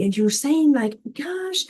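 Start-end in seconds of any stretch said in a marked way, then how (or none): 1.1-1.7 higher, fast, heated venting at everyone; half-acted frustrated outburst, speeding up; angry venting. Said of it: "and you even get angry".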